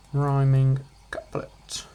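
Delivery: whispered slowly; slow whispered aside to the viewer; hushed slow note to self. Acted.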